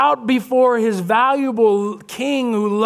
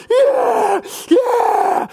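ecstatic shout, much higher and louder; dad cheering; 4 dB louder than usual. Retold or imitated. Dad at the ballgame shouts at his son, ecstatic. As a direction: yell for joy like the proud dad. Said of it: "he's going".

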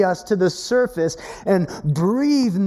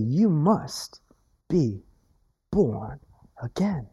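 each word slow and softer, sinking to a whisper on again; solemn slow; 5 semitones lower, 4 dB quieter, slower than usual. Acted. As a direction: lay it down word by word, hushed at the end. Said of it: "He said".

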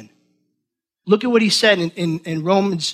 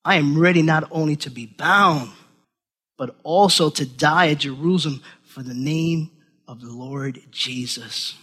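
tender reading; 3 semitones lower than usual. Real, not acted. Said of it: "I love what he says here".

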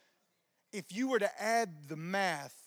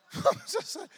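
short high burst of laughter; real laugh; 14 semitones higher than usual. Real, not acted. Preacher laughing at selling only one box, high burst of laughter. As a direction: laugh at your own missed chance.

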